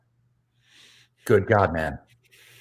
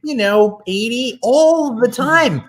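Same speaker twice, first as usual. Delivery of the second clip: flirty voice; 14 semitones higher than usual. Acted. Flirty improv husband voice.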